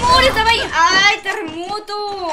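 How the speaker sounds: grito de sorpresa, agudo y fuerte; exclamación alarmada que se estira despacio en "terremoto"; susto real. Real, not acted. Sorpresa en el juego. (susto fuerte, luego alargado y lento)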